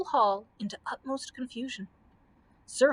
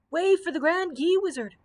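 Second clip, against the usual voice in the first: announcing crowd; 7 semitones higher, 4 dB louder than usual. A narrator's reading.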